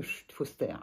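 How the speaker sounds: soft, low library shush; a quiet mock shush telling everyone to be silent; hushed shush. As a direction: hush them like a librarian. Quoting the library hush.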